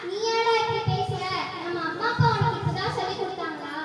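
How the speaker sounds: indignant moral warning; stern rebuke. Acted. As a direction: take a wayward brother to task. Relative rebukes son who abandoned mother.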